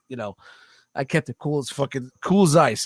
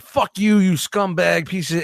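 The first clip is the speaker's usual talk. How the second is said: retold curse; 3 semitones higher, slower than usual. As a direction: spit it out like the angry customer. Customer cursing as he leaves.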